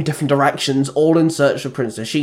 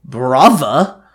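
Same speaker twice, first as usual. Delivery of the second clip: calling out; 6 dB louder than usual. Acted. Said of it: "called out in unison".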